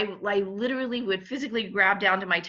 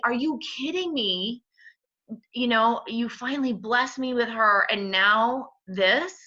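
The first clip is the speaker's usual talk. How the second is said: retold indignation; 4 semitones higher, 3 dB louder than usual. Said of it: "I was really angry with him".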